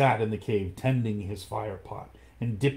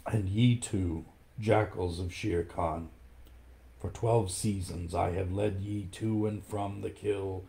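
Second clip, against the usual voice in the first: softer, lightly lowered and tired; weary old wolf; 3 dB quieter than usual. Acted. Old Akela offers his life to the pack, weary and soft. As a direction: speak like a beaten old leader. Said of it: "raised his old head wearily".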